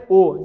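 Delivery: "او" said with rounded lips; rounded damma vowel. Shown as a demonstration. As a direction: draw the lips together for "او".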